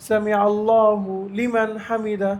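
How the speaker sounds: "সামি আল্লাহু লিমান হামিদা" with an odd break after আল্লাহু; needless pause. Shown as a demonstration. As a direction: pause wrongly inside the phrase. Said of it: "এরকম থামারও দরকার নেই।". (আল্লাহু-র পরে অপ্রয়োজনীয় থামা)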